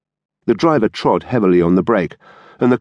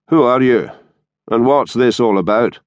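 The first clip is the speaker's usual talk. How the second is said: firm, slightly raised demand; 3 semitones higher than usual. A narrator's reading. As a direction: demand an explanation. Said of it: "he demanded".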